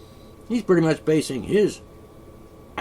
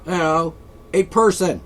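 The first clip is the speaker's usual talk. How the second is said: mocking opponents; 3 semitones higher, 5 dB louder than usual. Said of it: "they want it".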